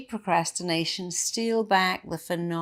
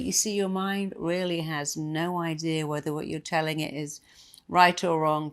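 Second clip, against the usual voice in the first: usual speaking voice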